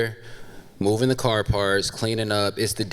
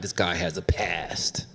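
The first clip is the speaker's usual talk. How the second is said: hushed whisper to himself; whispered worried aside; 7 semitones lower, 6 dB quieter than usual. Retold or imitated. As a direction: breathe it like a secret. Whispered aside about tattooed guy.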